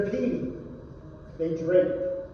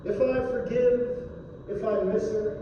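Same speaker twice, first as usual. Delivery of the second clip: steady drawl; 2 semitones lower, 5 dB quieter, faster than usual. Acted. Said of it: "In a steady drawl".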